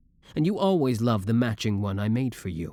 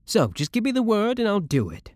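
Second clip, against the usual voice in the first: eager offer; 9 semitones higher than usual. Acted. Eagerly offers to remove rival.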